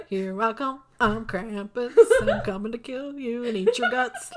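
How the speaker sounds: lightly voiced monster, laughing through it; a hint of a swaggering monster, giggling; weird Krampus voice. Retelling the movie monster to a friend, lightly voiced and laughing. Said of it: "it was so weird".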